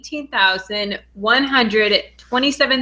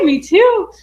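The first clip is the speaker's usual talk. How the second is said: high, louder burst of shared excitement; excited agreement; 9 semitones higher, 5 dB louder than usual. Real, not acted. Host agreeing with a viewer who waited all day, excited. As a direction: jump up in pitch and volume.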